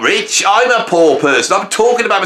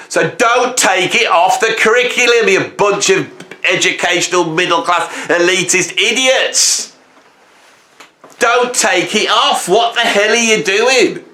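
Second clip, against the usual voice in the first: raised, heated telling-off; angry rant; 3 semitones higher than usual. Real, not acted. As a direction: scold them like a fed-up artist. Ranting at educational elite.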